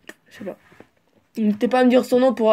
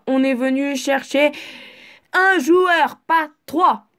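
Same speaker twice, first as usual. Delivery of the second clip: raised mock-angry shout on un joueur, pas trois; 2 semitones higher, slower than usual. Repeating the coach's line to the team, shouted. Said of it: "Pourquoi j'ai crié".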